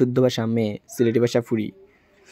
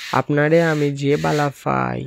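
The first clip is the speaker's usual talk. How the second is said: slow Sylheti, বালা for ভালো; drawn-out Sylheti confession; slow, fond Sylheti dialect. Shown as a demonstration. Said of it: "Sylheti ভাষা".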